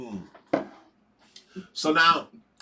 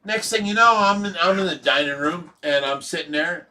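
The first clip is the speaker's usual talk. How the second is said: ordinary talk, nothing marked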